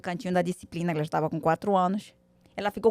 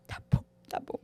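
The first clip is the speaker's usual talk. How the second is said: mock crying child; 5 dB quieter than usual.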